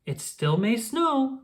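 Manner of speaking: lightly voiced hopeful mayor. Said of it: "said Mayor Goodway".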